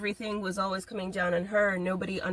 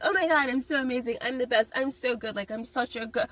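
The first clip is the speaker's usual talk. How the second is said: boastful imitation; 3 semitones higher than usual. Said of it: "people who talk like that".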